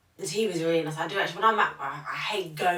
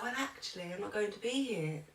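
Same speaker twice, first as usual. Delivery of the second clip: gentle news-breaking; 5 semitones higher, 8 dB quieter than usual. Retold or imitated. Teacher breaks news to class.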